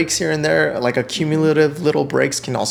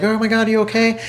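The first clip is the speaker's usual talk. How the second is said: worried wife; 8 semitones higher, faster than usual. Retold or imitated. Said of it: "she's like".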